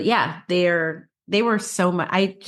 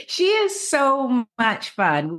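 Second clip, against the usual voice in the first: laughing through words; 8 semitones higher, much slower than usual. Real, not acted. Still laughing from the photo.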